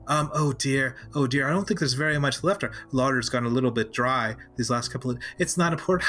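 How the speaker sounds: lightly voiced, apologetic maid; nervous gnome maid. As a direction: fret and stammer a little as the maid.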